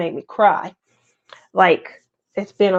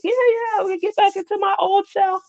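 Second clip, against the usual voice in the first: mock self-hype; 11 semitones higher, 4 dB quieter, faster than usual. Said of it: "I was like".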